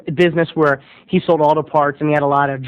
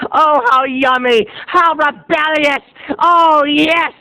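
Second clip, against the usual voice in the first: high, slow swooning delight; mock ecstasy; 7 semitones higher, slower than usual.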